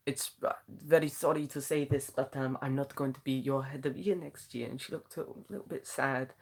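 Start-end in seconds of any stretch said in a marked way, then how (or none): 0.1-4.7 lightly voiced French teacher; bad French accent. French head of year addresses big assembly, bad French accent. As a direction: make the announcement in a rough French accent. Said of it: "please excuse the bad accent".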